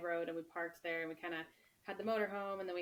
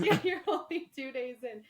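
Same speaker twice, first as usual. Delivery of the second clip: laughing through the words, pitched up; 6 semitones higher, 7 dB louder than usual. Real, not acted. Agreeing with the host about day two, laughing. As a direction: giggle as you echo it back.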